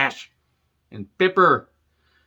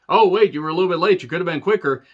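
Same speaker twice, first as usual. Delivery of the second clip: mock Owens; 5 semitones higher, 4 dB louder, faster than usual. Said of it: "He says".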